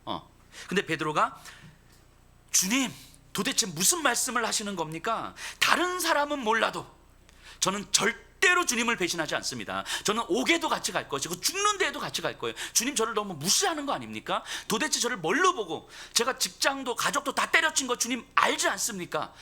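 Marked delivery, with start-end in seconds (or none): 2.5-12.5 heated protest. Retold or imitated. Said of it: "이렇게 지금 격하게". 12.7-14.4 heated protest. Retold or imitated. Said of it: "이렇게 지금 격하게". 14.7-19.3 higher and louder, indignant outburst; heated protest. Retold or imitated. Peter protesting to Jesus, heated and loud. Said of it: "이렇게 지금 격하게".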